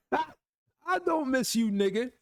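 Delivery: drawn-out slow denial through laughter; laughing denial. Real, not acted. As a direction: laugh it off while denying it.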